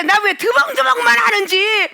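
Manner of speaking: normal talking voice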